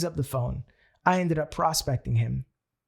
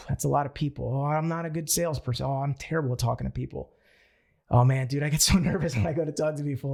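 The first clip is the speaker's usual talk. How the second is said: put-on timid old self. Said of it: "The previous me was a lot more like".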